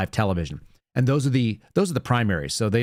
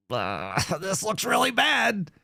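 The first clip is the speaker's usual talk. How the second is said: laughing disbelief; 7 semitones higher, 3 dB quieter, slower than usual. Retold or imitated. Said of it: "You're like".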